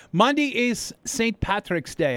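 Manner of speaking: put-on half-hearted Irish accent, high and slow; failed Irish accent. Radio host announces Saint Patrick's Day, attempted Irish accent. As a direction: have a clumsy go at an Irish accent. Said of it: "I can't do a Irish accent".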